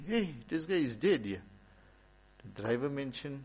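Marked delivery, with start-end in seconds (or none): 0.1-1.4 mild mock scream, higher pitch; retold scream. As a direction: imitate a shocked woman crying out. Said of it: "She started screaming".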